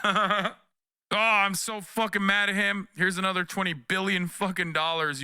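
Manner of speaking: sarcastic fake fury; mock angry Biden. Mocking Biden to chat in a whiny pretend rage.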